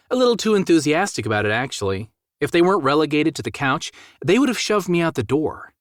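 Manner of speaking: a hint of a playful woman's tone; Juliet's voice. Narrator voices Juliet's reply.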